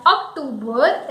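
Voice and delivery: OCTOBER as uk-TOO-ber; Hindi pronunciation. Shown as a demonstration. Teacher noting the Hindi word, Hindi pronunciation. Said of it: "October is said in Hindi".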